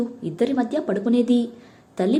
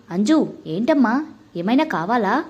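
usual speaking voice

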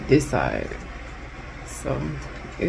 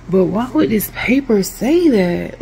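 slow, louder exasperated question at the instructions; 4 semitones higher, 5 dB louder, slower than usual. Real, not acted. Complaining to viewers about the assembly paper, exasperated. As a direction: drag it out, fed up with the paper. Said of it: "I'm just very irritated".

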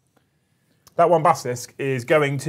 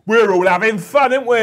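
sarcastic taunt; 8 semitones higher, 6 dB louder than usual. Pretend. Sarcastic taunt over the game.

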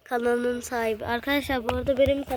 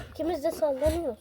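on a bumpy road; 3 semitones higher, faster than usual. Real, not acted. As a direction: voice jolted by bumpy tractor ride. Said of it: "traktör de giderken çok sallanıyor".

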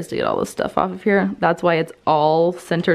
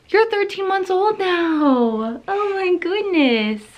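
surprised; 9 semitones higher, slower than usual. Real, not acted. Surprised mom at baby's age.

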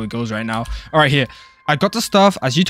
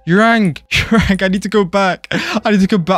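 louder and higher, urgent; flustered calling out; 5 semitones higher, 4 dB louder than usual. Real, not acted. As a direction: call for him in a laughing panic.

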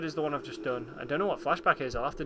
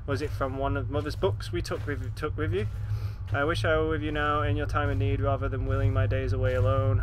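reading a letter; 2 semitones lower than usual. Acted. Reads letter aloud.

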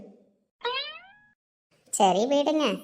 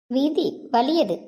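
mock-tragic sigh; 4 dB louder, much slower than usual.

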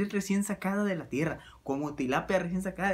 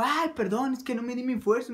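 mock apology; 6 semitones higher than usual. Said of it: "Y me dijo".

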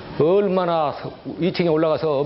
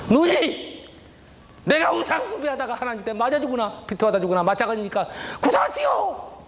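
desperate outburst; 8 semitones higher than usual. Retold or imitated. Desperate outburst, eyes flipped.

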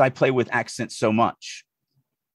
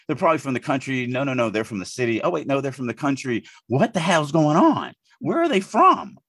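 baffled rant; 3 semitones higher than usual. Retold or imitated. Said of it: "I'm like".

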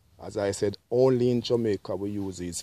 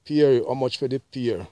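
hailing the pear seller, a bit louder; calling the vendor; 2 semitones higher, 5 dB louder than usual. Retold or imitated. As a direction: call out to the market stall. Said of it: "We said peary".

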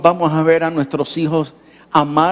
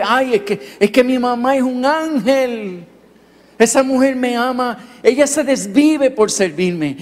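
lightly voiced child, higher pitch; gushing young boy; 5 semitones higher than usual. Boy praises his mother to the pastor, gushing. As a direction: gush like an adoring son, stretching key words.

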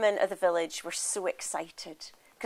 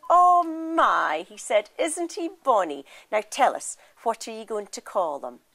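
put-on excited old women; 6 dB louder than usual. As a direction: gush over the bonny baby. Old women admiring the baby.

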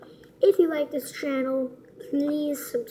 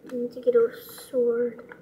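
talking with a plugged nostril; blocked nose. Real, not acted. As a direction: speak through a blocked nose. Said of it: "Sorry, I kinda sound weird".

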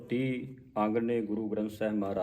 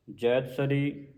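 slow, careful recital of the heading; slow recitation; slower than usual. Shown as a demonstration. Teacher recites the hymn heading slowly for the congregation. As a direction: recite each word slowly and deliberately. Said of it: "ਪੰਜਵਾਂ ਨਹੀਂ ਪੜ੍ਹਨਾ".

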